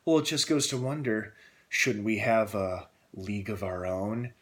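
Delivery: a light take on a scheming villain teasing a plan; Lex Luthor line. Retold or imitated. Reviewer quoting Lex Luthor's post-credit line, lightly menacing. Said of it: "he has this badass little line".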